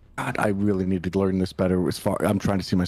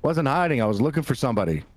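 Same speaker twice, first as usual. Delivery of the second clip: flustered bluff; 2 semitones higher, faster than usual. Acted. Player bluffs as a confused cultist.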